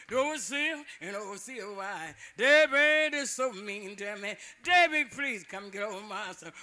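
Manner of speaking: a hammed-up pleading cry to the spirit; loud pleading prayer. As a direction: beg Debbie to come, voice ringing over the graveyard. John prays aloud at the grave.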